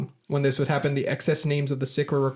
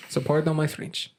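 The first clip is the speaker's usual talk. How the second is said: put-on French accent. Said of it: "I said it in a French accent".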